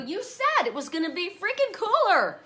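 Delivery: tease-scold it, not really mad; mock angry complaint. Retelling scolding the landlord about the heat, mock angry. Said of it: "I get mad at him".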